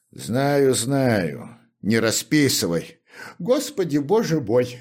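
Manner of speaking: fervent, pleading cry to God; shoemaker's heated lament. Acted. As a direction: pour it out with heat. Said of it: "с жаром продолжал башмачник".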